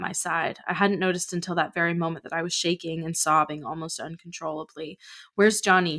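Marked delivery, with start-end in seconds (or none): 5.4-6.0 demanding. Acted. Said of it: "she demanded".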